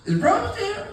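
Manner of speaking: hammed-up nervous suitor on the phone; high, timid caller. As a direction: ask nervously like a shy suitor. The speaker asks for the mom.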